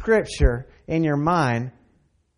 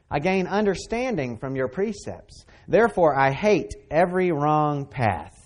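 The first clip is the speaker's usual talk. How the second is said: scripture reading. Acted. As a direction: read the verses with reverence. Reads psalm aloud.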